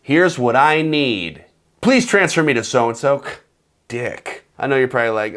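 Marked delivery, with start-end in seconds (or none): 0.0-3.2 blunt demand. Retold or imitated. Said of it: "if you just go straight to".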